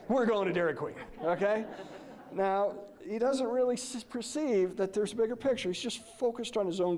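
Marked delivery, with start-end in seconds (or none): 0.1-1.7 put-on a touch brighter and firmer, as an eager kid; kid's selective hearing. Kid hearing only the treat from a parent, mildly excited. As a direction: lightly imitate a kid seizing on the good news. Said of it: "What'd that kid just hear?".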